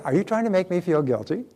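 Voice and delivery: a breezy, friendly "are you trying to make me feel guilty"; cheerful. Shown as a demonstration. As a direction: ask it brightly, no edge at all. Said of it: "just say it with a cheerful voice".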